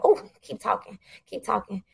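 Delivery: soft, savoring encouragement; enticed murmur. Retold or imitated. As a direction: coax them softly to go on. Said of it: "I was like".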